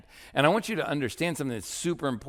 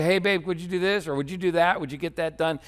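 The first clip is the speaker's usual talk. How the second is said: mock judgmental request; 5 semitones higher, faster than usual. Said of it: "that kind of judgmental".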